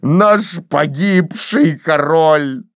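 slow lamenting moan; mild groan. Acted. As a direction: draw it out grieving. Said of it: "громко простонал он". (Кейси стонет о Парнелле, очень медленно)

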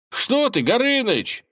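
Ivan's voice. A narrator's reading. Ivan peeking out at the dragon, high and timid. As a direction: play the nervous young lad.

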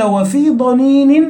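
verse recited slowly and carefully; slow poem recitation. Shown as a demonstration. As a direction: chant the line slowly and evenly. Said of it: "قال".

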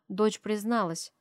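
ordinary delivery

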